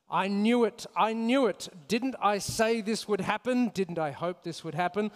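gloating Bond villain voice; mad scientist. Retold or imitated. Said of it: "Kinda sound like a Bond villain".

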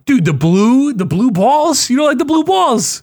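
can't believe what you just heard; incredulous outburst. Real, not acted. Outraged at friend's dislike.

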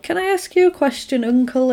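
high-pitched questioning nephew; little boy's voice. Retold or imitated. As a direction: imitate a child asking his uncle. Retold boy asks his uncle.

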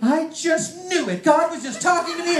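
high, loud and slow with laughter; imitating an elated aunt, laughing; excited. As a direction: gush with joyful vindication. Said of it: "she was all excited".

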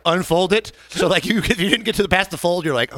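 ordinary delivery

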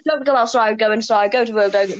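lightly voiced blustering politician; a rough go at the prime minister; Boris impression. Mimicking a muddled government announcement for friends, Boris impression. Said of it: "I can't do a good Boris".

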